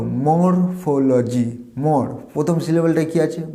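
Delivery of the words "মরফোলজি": মরফোলজি stretched slowly into its syllables. Shown as a demonstration. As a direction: sound out মরফোলজি, r still in, very slowly. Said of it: "সিলেবলটা ভাবো".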